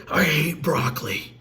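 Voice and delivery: put-on slow, sulky child's complaint; mock sulky kid refusing broccoli; whiny kid. Shown as a demonstration. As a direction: pout it out like a kid who hates greens. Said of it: "But if you change your tone".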